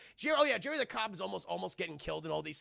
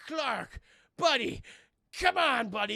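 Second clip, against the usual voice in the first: higher, louder mock coaxing; pleading buddy; 7 semitones higher, 5 dB louder, slower than usual. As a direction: coax a friend back, hammed up. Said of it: "And he's like".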